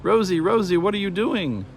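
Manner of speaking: high, frantic scream of a name; little sister screaming in panic. A narrator's reading. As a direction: shriek for her sister in alarm.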